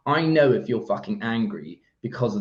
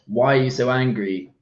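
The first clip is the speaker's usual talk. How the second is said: accusing, slightly raised demo question; judgmental question; 3 semitones higher, 4 dB louder than usual. Shown as a demonstration. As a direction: ask it with implied judgment. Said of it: "That comes across in tone".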